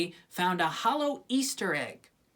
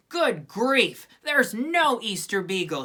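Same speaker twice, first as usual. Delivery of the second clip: firm declaration; 3 semitones higher, 3 dB louder than usual. Acted. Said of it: "she declared".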